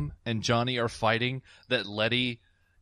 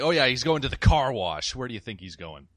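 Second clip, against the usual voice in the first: sarcastic retort. Retold or imitated. Dom answering where Jesse is going, lightly sarcastic. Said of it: "A great sarcastic response".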